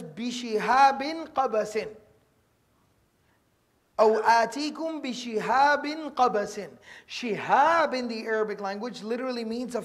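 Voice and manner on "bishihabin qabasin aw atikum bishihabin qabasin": slow recitation. Acted. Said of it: "Allah subhanahu wa ta'ala says".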